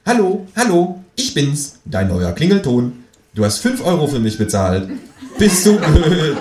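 high, squawking phone ringtone; tinny ringtone squawk; squawky ringtone voice. Acted. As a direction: quack it out like a cheap ringtone. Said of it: "quäkt es aus dessen Telefon".

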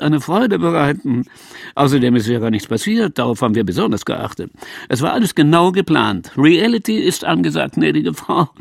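slick, condescending presenter voice; smug TV boss. Acted. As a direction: lecture them smoothly from above. TV boss speech.

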